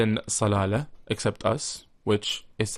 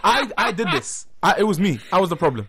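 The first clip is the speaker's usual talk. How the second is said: laughing; 7 semitones higher, 4 dB louder than usual. Real, not acted. Laughing, taking the blame.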